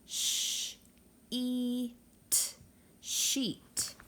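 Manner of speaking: sh whispered, E sung high, t clipped, then sheet; segmenting sounds. Shown as a demonstration. Teacher models finger stretch for the class, sound by sound. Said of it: "Finger stretch".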